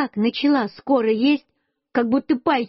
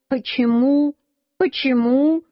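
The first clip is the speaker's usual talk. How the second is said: put-on high, whiny child's questioning; close to tears; 4 semitones higher than usual. A narrator's reading. Boy wanting to cry as he is carried off, tearful questioning. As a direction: plead like a child about to cry. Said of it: "может быть, заплакать и говорил".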